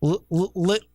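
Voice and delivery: breaking the name into pieces; halting, syllable by syllable; sounding out words. Real, not acted. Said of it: "I don't know if I can even do it".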